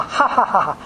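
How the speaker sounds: spoken mock "ha ha ha ha"; retold belly laugh, half-hearted; imitated laughter. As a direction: imitate his laugh in evenly pulsed ha's. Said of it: "他就笑".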